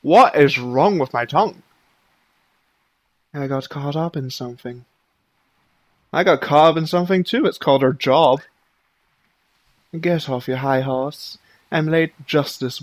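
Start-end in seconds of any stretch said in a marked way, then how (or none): 3.3-4.8 quiet excuse. Acted. Voiced game dialogue, character excuse. 6.1-8.4 loud, fast sarcastic comeback; snappy retort. Acted. Voiced game dialogue, sharp comeback.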